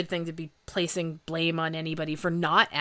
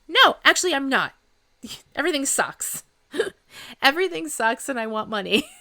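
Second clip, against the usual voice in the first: loud, high mock despair breaking into laughs; 7 semitones higher, 4 dB louder than usual. Friend answering the okay question, laughing mock despair. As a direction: ham up a melodramatic no, laughing through it. Acting out a miserable reply.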